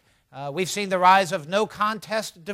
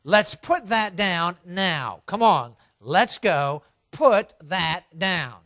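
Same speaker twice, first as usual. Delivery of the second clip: slow, firm parental order, only mildly raised; a touch of a stern father; slightly raised voice; slower than usual. Acted. Father to daughter clinging to the toy, mildly firm. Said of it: "raises his voice a little bit".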